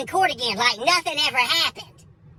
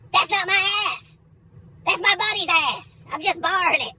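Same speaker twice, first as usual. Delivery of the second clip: mock indignant denial; 7 semitones higher than usual.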